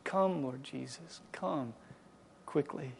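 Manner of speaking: soft, slow, longing plea; a whispered-down longing for Jesus to come; hushed prayer. Retold or imitated. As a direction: breathe it out like a quiet prayer. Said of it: "And you pray".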